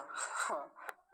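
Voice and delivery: brief breathy chuckle; short chuckle. Real, not acted. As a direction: let out a little laugh. Teacher chuckles after easy word.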